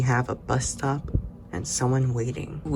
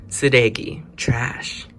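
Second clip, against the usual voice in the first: whispering. Acted. Vocabulary repeat.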